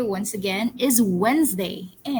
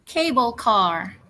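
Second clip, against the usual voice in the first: slow model word; slower than usual. Shown as a demonstration. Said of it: "repeat after me".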